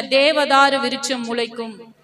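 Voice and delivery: drawn-out, measured proclamation; slow declaration. Real, not acted. Preacher tells believers to say it in faith, declaring slowly. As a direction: stretch each word for a congregation to follow.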